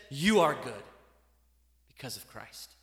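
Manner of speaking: gentle low divine reply; God answering. Pretend. God speaks to believers.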